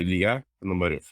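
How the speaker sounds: Ilya Ponomarev said quickly, Russian stress on the end; Russian pronunciation. Shown as a demonstration. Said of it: "say it again".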